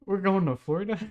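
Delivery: high, rising, stunned question; can't believe we're going to Florida; shocked disbelief. Retold or imitated. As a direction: squeak it out in total disbelief. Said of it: "I was like".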